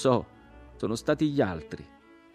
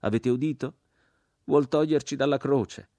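high, loud, indignant tirade; jeering shout; 8 semitones higher, 7 dB louder than usual. A narrator's reading. Crucified man denounces the Christian's offer, jeering shout. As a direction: taunt them with rising scorn. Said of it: "gridò l'uomo crocifisso".

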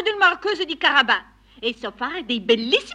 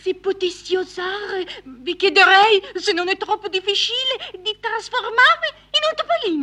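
wheedling; 4 semitones higher than usual. Acted. Cat asks cunningly.

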